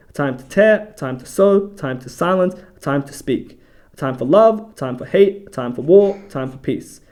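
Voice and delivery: measured list, phrase by phrase; scripture reading. Acted. Host reading out the verse on seasons, measured scripture reading. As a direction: read each pairing as a separate beat.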